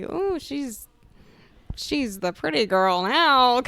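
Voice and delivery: high, slow, airy mock diva voice; flouncy pretty girl. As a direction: play a flouncy girl preening. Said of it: "like, flouncy".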